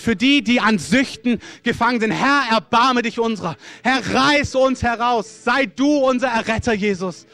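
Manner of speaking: strong prayer voice, building in urgency; loud fervent prayer. Real, not acted. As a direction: cry out to God for mercy.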